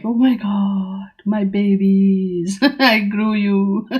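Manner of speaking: slow, drawn-out doting coo; mock loving gushing. Card figure gazing at the fruits he grew, playfully loving. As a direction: dote on them slowly, with a little laugh. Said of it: "lovingly and like".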